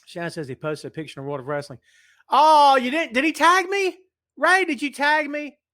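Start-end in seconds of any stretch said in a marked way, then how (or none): 2.3-5.6 surprised. Real, not acted. Reacts to news of posted picture.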